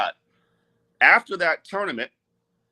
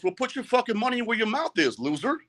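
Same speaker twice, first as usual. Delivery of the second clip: retold jeer; 8 semitones higher than usual. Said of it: "and he goes".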